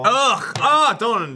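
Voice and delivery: high groan of real dislike; disgusted groan. Real, not acted. Recoiling from Tiny Tina being mentioned, disgusted groan.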